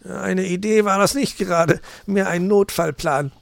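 high, loud amused fox; laughing. A narrator's reading. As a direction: say it with a touch of laughter. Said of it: "lachte Herr Fuchs".

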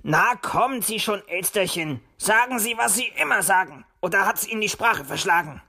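fox teasing a visitor cheerfully; amused teasing. A narrator's reading. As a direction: call out with a touch of amusement. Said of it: "lachte er". (belustigt neckend)

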